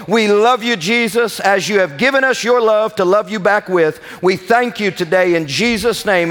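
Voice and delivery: earnest congregational prayer, lifted voice. Acted. Pastor praying over his congregation, earnest and lifted. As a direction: pray over the church with conviction.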